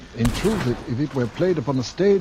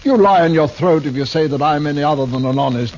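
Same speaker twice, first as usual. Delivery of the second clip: indignant protest; 3 semitones higher, 5 dB louder than usual. Acted. Actor protests accusation of murder.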